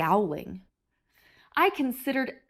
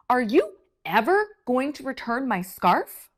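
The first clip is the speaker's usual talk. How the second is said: grumpy demand; 2 semitones higher, 4 dB louder than usual. Acted. Grumpy grape demands scarf.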